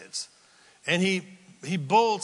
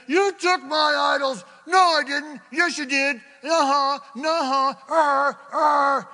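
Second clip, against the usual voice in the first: put-on shouted high, fast, childish squabble; yelling quarrel; 9 semitones higher, 6 dB louder than usual. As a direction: bicker like two kids. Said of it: "while they're yelling at each other".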